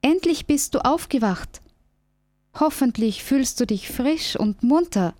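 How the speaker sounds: eager squirrel waking the bear. Acted. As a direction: voice the squirrel bright and high. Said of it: "sagt das Eichhörnchen".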